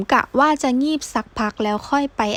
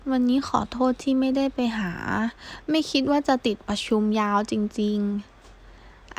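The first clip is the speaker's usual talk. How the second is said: guilty apology, fading softer and slow; 4 dB quieter, slower than usual. Acted. Kao apologising to his senior for missing the visit, guilty and soft. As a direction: apologise quietly, weighed down with guilt. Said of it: "ทำเสียงเหมือนรู้สึกผิดมาก".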